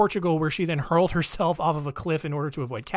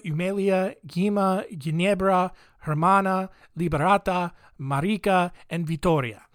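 names read with a careful Iberian accent; lightly put-on Iberian accent, name by name; attempted Iberian accent. Shown as a demonstration. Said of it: "my accent on point".

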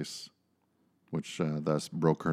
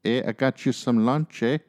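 put-on Canadian accent; 4 semitones higher than usual. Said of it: "'Cause I think they're Canadians".

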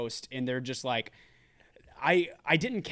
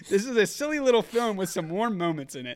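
1 emphatic reading; 7 semitones higher, 7 dB louder than usual. Acted. Reading a scathing review aloud.

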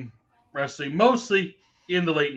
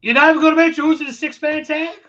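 high, fast and loud disbelief; can't believe it's not said; incredulous; 11 semitones higher, 8 dB louder, faster than usual. Real, not acted. Incredulous wrestler complaint.

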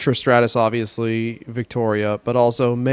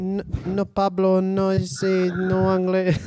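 mock Spanish accent; 4 semitones higher, slower than usual. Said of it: "let's not do that accent".

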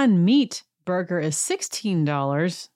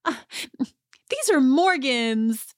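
irritated; 6 semitones higher, slower than usual. Retold or imitated. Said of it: "And she says".

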